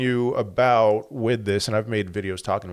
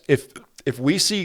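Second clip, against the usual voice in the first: talking through hiccups; hiccuping between words; 5 semitones higher than usual. Real, not acted. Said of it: "I'm hiccuping".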